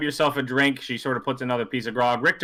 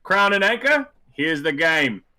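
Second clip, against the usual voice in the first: louder showman's call; carnival barker; 5 semitones higher, 4 dB louder, slower than usual. Acted. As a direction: bark it like a fairground hawker. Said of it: "they turn to you and go".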